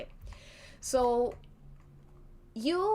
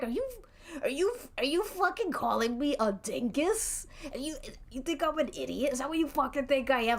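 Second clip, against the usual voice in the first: higher-pitched, offended tough guy; mock angry; 5 semitones higher, faster than usual. Angry wrestler confronting the wizard over an insult, mock furious. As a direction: act insulted and spoiling for a brawl. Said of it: "So he's really mad. He's really mad".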